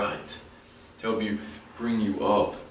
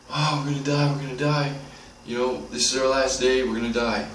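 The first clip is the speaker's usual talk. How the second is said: higher-pitched imitation of a group freaking out; mock panic; 5 semitones higher than usual. Trapped group fearing attackers in the cave, mock panic. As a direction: retell their panic in a raised voice. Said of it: "the group's freaking out".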